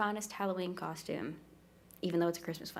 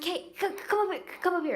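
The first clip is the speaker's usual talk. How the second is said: retold calling out; 10 semitones higher, faster than usual. Retold summons up onto the stage.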